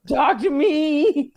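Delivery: slow, fake sobbing plea; mock crying. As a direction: whimper it out, hammed-up.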